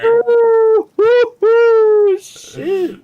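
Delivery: high, loud, laughing shock; squeal, then laugh it off; shocked whoops. Real, not acted. Gross reaction to mom joke.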